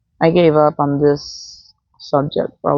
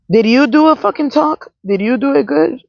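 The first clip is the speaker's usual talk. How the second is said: mocking sneer; 8 semitones higher than usual. Mocking members judging brother's talk.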